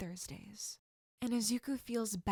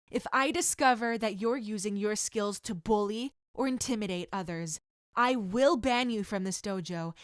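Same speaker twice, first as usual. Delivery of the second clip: firm, louder stern sensei laying down the law; stern warning; 4 dB louder than usual. Acted. Sensei warning students against bullying, stern. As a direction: make the threat clear and hard. Sensei sets the dojo rule.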